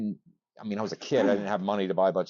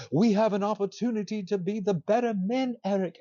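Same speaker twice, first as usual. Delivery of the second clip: Xavier voice; 11 semitones higher than usual. Retold or imitated. Xavier quoted pleading.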